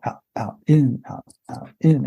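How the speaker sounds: rhythmic "out, out, in", counted like a waltz; waltz-beat breathing count. Shown as a demonstration. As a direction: count "out, out, in" in time with running steps. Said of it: "running along to a waltz beat".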